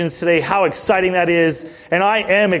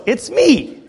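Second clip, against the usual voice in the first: laughing; 7 semitones higher than usual. Retold or imitated. Daughter's punchline, laughing.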